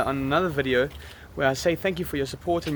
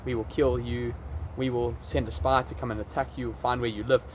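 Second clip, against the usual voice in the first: low mock-threatening Russian commenter; imagined angry Russian; 4 semitones lower than usual. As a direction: play a menacing Russian, understated and lower. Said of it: "So that Russian comment in Russian, I thought".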